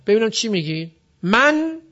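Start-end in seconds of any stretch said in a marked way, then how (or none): 1.2-1.8 "من" isolated and higher, closed on the n; high, held "من" with no vowel after the n; sukun ending. Shown as a demonstration. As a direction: show that "من" ends in a vowelless n. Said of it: "سکون آخرش".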